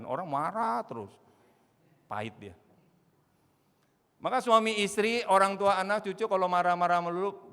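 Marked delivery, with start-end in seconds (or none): 4.2-7.5 loud, high, urgent preaching; preaching at full force. Acted. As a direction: drive the warning home from the pulpit. Preacher raises voice.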